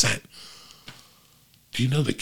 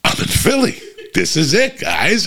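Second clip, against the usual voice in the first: much higher, delighted sarcastic wonder; mock amazement; 11 semitones higher than usual. Dad hearing locals swear, mock thrilled. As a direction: squeal it like a wide-eyed tourist. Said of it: "And I'm like".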